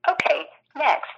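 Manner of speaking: phone menu voice. Real, not acted. Automated phone system prompt.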